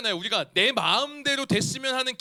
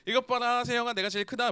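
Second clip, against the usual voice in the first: put-on mildly gleeful, boasting kid; imitated excited child; 2 semitones higher than usual. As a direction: show off to a playmate like a thrilled child. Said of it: "하면서 막 신났어요". (신나서 자랑하는 아이 흉내)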